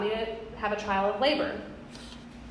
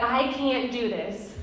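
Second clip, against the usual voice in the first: retold despair; 5 dB quieter, slower than usual. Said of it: "every single time I said".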